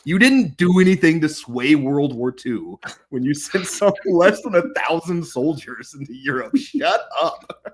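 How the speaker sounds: drawn-out, slow comic outrage; hammed-up telling-off, close to laughing; mock exasperated retort. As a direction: stretch each jab in mock disbelief. Acted exasperated retort to imagined boasters.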